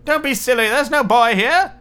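wife brushing off the giant's suspicion. Acted. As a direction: brush him off airily. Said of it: "said his wife".

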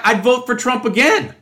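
mocking Trump voter. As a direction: sneer it like a die-hard supporter. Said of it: "many of them are like".

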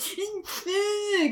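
high, thin mock whimper; imitated crying. Imitating the boy the whole time, mock crying.

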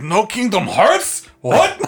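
shocked outrage. Pretend. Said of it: "He's like".

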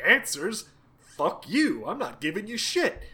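petulant, pitch-jumping mock refusal; pissy refusal. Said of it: "being a pissy baby the whole time".

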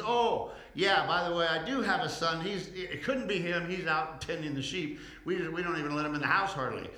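an embarrassed father's sudden loud admission; sheepish father. Acted. Jesse admits his other son.

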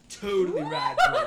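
high mock surfer bro; surfer dude voice. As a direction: ham up a stoner surfer.

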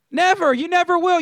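NEVER hit hard and high; emphatic never. Real, not acted. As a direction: punch the word never, twice. Preacher insisting nobody pays IRS.

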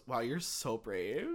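slow, patronizing mock praise; slow fake-sincere compliment; condescending praise. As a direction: talk down while praising. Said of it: "looks at you and goes".

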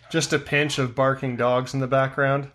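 chewing while talking; mouth full. Real, not acted. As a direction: talk through a mouthful. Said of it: "With my mouth full?".

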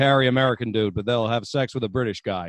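loud American-accented mock confession, building from the first word; put-on American accent. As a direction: let them in on the secret in a forceful American accent. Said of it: "your accent's not real".

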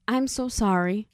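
imitated earnest apology, understated; real serious. Lithgow character apologizing as he takes her hand, seriously. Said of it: "he's all, like, real serious now".

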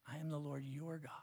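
"I am the Lord your God" whispered softly, stress on "am"; voiceless reverent whisper of "I am the Lord your God"; hushed whisper. Shown as a demonstration. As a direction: breathe "your God" like a secret. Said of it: "reworded take".

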